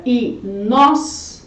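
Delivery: inóspitos broken as i, NÓS, pi-tos; split into syllables. Shown as a demonstration. Teacher separating the word, inóspitos in slow syllables. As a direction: hold NÓS long and pause inside inóspitos. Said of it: "Quando a gente separa a palavra".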